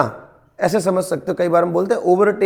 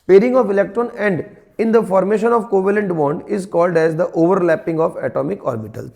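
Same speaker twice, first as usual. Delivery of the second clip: slow dictation; much slower than usual. Shown as a demonstration. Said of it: "dictating definition to students".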